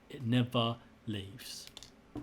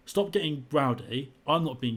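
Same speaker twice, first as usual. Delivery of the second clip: retold argument; 2 semitones higher, 4 dB louder than usual. Retold row with bus driver.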